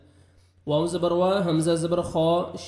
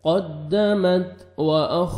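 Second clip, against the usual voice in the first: slow recitation; much slower than usual. Shown as a demonstration. Quran recitation with tajweed.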